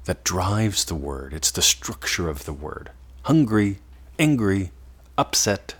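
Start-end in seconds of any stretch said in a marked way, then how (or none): 3.2-5.8 a bit louder and pushed; tense words. Shown as a demonstration. Teacher contrasting charged words, louder and tense. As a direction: push each word outward. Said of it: "Hear the difference in the words?".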